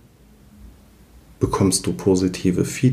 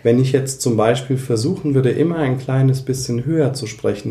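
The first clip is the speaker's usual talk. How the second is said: slightly higher voice; 3 semitones higher than usual. Shown as a demonstration. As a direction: nudge the pitch a little higher, pressing a bit. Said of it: "wie ich das gerade mache". (etwas höher sprechen)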